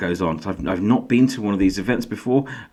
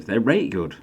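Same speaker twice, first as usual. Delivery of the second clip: light Yorkshire; 2 semitones higher than usual. Pretend. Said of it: "Don't do that".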